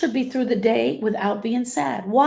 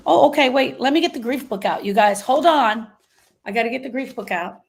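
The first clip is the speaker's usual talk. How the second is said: sarcastic mock fluster; 2 semitones higher, 3 dB louder than usual. Sarcastic mock fetching of book.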